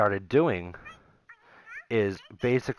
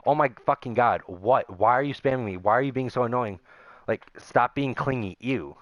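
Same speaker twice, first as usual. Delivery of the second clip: mock annoyed girlfriend. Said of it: "she's like".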